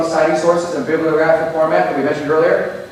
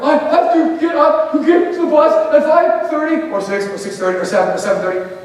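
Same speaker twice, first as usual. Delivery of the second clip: put-on whiny teenager; 10 semitones higher than usual. Teens protesting early bus.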